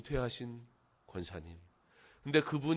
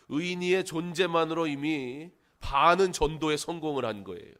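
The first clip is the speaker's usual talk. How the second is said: louder, emphatic preaching; 5 semitones higher, 7 dB louder than usual. Acted. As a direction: press each phrase home to the congregation. Preaches with rising force. (힘주어 설교하는 목소리)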